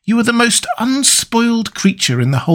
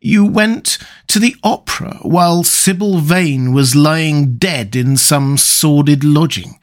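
strained, hurt disbelief; understated anguish, rising into protest; pained reproach; 7 semitones higher than usual. A narrator's reading. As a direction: reproach a friend with a touch of pain. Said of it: "with a strained touch of pain in his voice".

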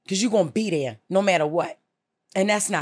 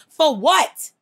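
sharp, high and loud; exasperated outburst; 8 semitones higher, 6 dB louder than usual. Real, not acted. Host berating a caller, exasperated outburst. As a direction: throw the question back at her in disbelief.

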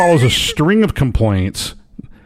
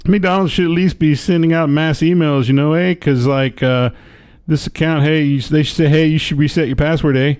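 quoted Canadian man, much higher, hammed-up Canadian accent; mock Canadian accent; 4 semitones higher than usual. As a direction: play the complaining Canadian customer, Canadian accent. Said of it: "he said".

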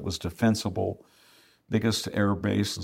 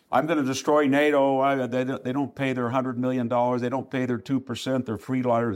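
tough talk; 4 semitones higher than usual. Retold or imitated. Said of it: "talk tough, trash talk".

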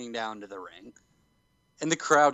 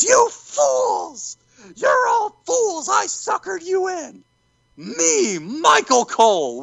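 much higher, slow, gloating cartoon villain cry; villain heel turn; 4 dB louder, much slower than usual. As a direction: twirl the mustache and sneer it out like a hammed-up villain. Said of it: "one of the best heel turn".

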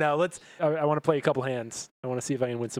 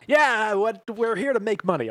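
louder, higher indignant retort; loud protest; 8 semitones higher, 7 dB louder than usual. Acted. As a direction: fire back loudly. Character protests loudly.

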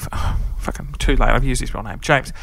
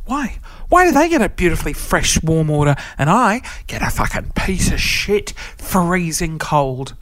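mock outrage; 2 semitones higher than usual. Ranting about the cold order.

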